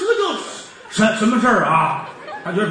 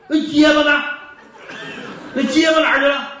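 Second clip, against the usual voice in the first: demanding shout; 5 semitones higher than usual. Acted. Magistrate calling out for the stutterer, a demanding shout. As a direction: bark out the question.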